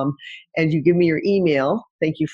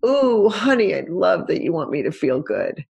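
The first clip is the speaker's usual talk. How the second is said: appreciative. Shown as a demonstration. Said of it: "A is for appreciate".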